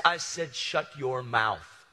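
"Shut your mouth" drawn out word by word; emphatic repeat. Retold or imitated. Handler repeats his order in quarrel.

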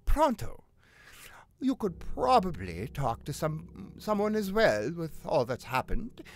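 lilting, dramatised letter reading; letter read aloud. Acted. Agent writing to a struggling painter, letter read aloud. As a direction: read it out as the concerned agent who wrote it.

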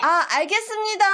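wolf voice. Acted. Wolf accepts, fooled.

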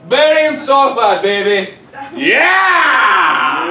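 excited cheer. Real, not acted. Teacher celebrates correct answer.

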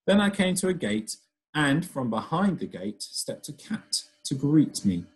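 lively storytelling voice, characters acted out; reading to children. Teacher reading a story aloud to her pupils, lively storybook voice. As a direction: read it like a picture book to a class.

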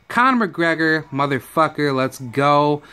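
a bad, hyped-up Irish accent; Irish accent attempt. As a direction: fake an Irish brogue for Conor, not very well. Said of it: "I don't think that was a good accent".

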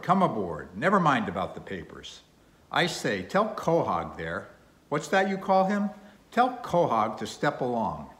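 put-on lively, emphatic old whaling captain; gruff sea captain, hearty. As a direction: hail them aboard with rough enthusiasm. Voices gruff, hearty Captain Peleg.

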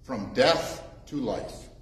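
measured, solemn reading of the Gospel; scripture reading. Acted. Preacher reading the Gospel to the congregation, solemn.

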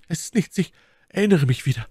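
high falsetto lady; My Lady, dismissive. A narrator's reading. Lady reassuring Felton about her hands, high and light. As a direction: brush it off in a high feminine voice.

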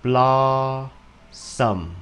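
blossom with a rounded British O, stress on the first syllable. Shown as a demonstration. Teacher modelling blossom in British English, stressed first syllable. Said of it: "Dấu nhấn nằm ở chữ đầu tiên".

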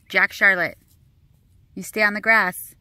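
calling out firmly. Real, not acted. Mom calling toddlers back from the street, loud and firm. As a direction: call them back onto the grass, firm and loud.

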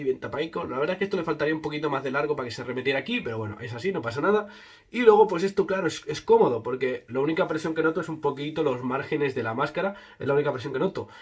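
muffled behind mesh cover; through a face mask. Real, not acted. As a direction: mouth covered by fabric. Seen 4: Mesh mask covers mouth throughout; reference frames show uncovered face.

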